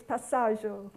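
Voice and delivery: slow, careful attempt at an Italian accent; best Italian accent. Shown as a demonstration. Presenter showing the audience Italy's word for carpooling, best Italian accent. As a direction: try your best Italian accent, drawn out. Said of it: "I shall say it with my, uh, best Italian accent".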